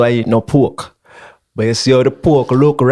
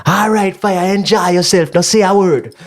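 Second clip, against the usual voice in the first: higher, unhurried voice; pitched up with a slow close; Rasta man voice; 7 semitones higher, slower than usual. Retold or imitated. The Rasta man seeing him off, high and unhurried. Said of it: "I say".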